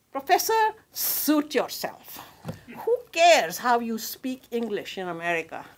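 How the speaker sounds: mock a cheeky student heckling the teacher; heckler from the back. Student at the back teasing the professor, cheeky mock heckle. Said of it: "a voice from the back would say".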